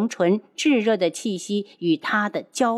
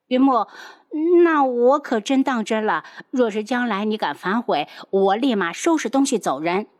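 pouting tease; coquettish pout; 2 semitones higher than usual. Acted. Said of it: "娇嗔地看着他".

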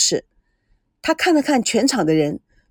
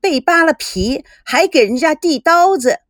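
scornful jab; 6 semitones higher, 4 dB louder than usual. Acted. Sister jabbing at her brother.

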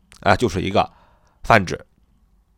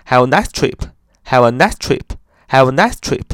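dictating; slower than usual. Shown as a demonstration. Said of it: "比如说旅途愉快".

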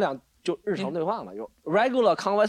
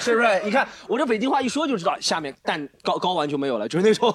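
Beijing accent; 3 semitones higher than usual. Shown as a demonstration. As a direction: show off a Beijing accent jokingly. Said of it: "我学北京话还是其实有点心得的".

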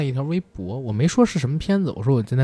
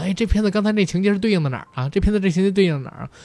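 imitating the journalist; 7 semitones higher, faster than usual. Journalist asking him repeatedly.

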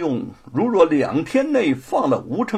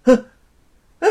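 叹气; 8 semitones higher, 9 dB louder than usual. Acted. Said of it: "连连叹气儿".

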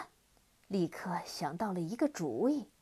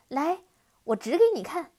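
eager coaxing; 6 semitones higher, 9 dB louder, faster than usual. Acted. Girl lures the demon.

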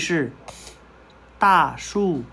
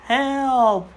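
cry for help; 6 semitones higher than usual. Acted. Teacher voices monkey shouting help.

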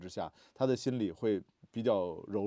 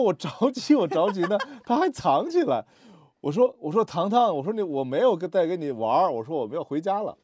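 much higher and louder, exasperated father; retold angry yelling; 7 semitones higher, 8 dB louder than usual. Father retelling how he shouted at his hiding daughter, angry yell. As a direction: bark it out in a hurry, fed up. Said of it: "我当时我就很，很生气".

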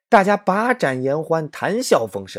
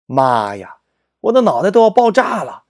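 mock overwhelmed; 5 semitones higher, 4 dB louder than usual.

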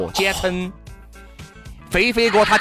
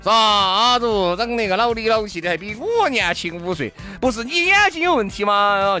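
scornful retort. Pretend. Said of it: "如果让我的话".

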